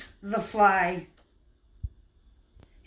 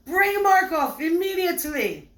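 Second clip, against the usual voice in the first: put-on loud, much higher furious command, Russian accent; furious royal command; 11 semitones higher, 9 dB louder than usual. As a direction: roar the order at the waiters like an enraged nobleman. Cesar furious at the baker.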